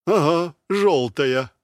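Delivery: slow, biting sarcasm; sarcastic. A narrator's reading. Black-haired soldier sarcastically jabbing at the man behind the wall. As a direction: drawl it with a sneer. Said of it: "язвительно сказал черноволосый".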